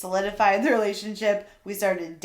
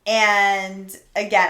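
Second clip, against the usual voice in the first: ordinary delivery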